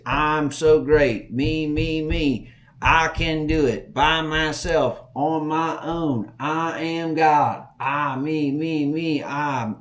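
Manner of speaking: mocking a self-important braggart; mock boasting. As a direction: puff yourself up, stretching each word.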